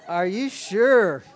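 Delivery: laughing. Real, not acted. Asking the couple, laughing.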